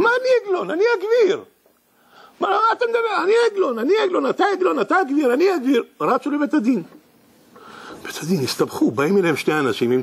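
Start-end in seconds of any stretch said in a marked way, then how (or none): 0.0-1.4 high indignant protest. Acted. Acted quarrel driver vs rich man. 2.4-5.8 high mock quarrel. Acted quarrel, confused mix-up.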